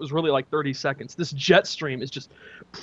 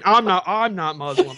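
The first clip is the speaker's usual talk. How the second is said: mock disdain. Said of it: "You said it with such disdain".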